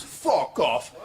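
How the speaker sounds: put-on dismissive Jamaican-accented retort. Chalky refuses her price, Jamaican accent. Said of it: "This is my Jamaican accent now".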